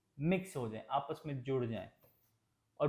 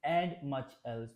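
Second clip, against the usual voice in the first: styled reading; much slower than usual. Shown as a demonstration. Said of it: "जब word बोला biography".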